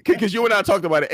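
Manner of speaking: high, loud, laughing; laughing hard. Real, not acted. Joking about entrepreneurs with friends, high laugh. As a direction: cackle through it.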